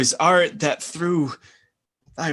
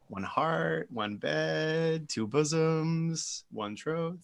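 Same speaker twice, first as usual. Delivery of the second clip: tender; 5 dB quieter, slower than usual. Acted. Tender vow to Hermia.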